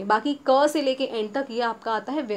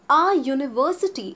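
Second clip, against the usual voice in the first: a university with a yoo sound, slow; slow model reading; much slower than usual. Shown as a demonstration. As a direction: say a university slowly, stress the yoo. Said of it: "teacher modelling examples".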